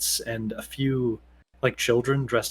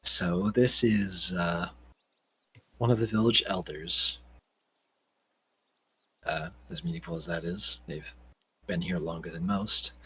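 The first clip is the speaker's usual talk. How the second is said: put-on young Jonathan; 5 semitones lower, 5 dB quieter than usual. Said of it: "or Jonathan says".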